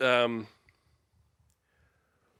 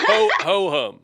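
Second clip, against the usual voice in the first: laughing; 7 semitones higher, 7 dB louder than usual. Real, not acted. Laughing at flubbed word.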